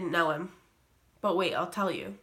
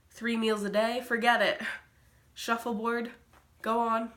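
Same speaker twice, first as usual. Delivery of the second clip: scoffing; 3 semitones higher than usual. Acted. Scoffing at camp compared with resort.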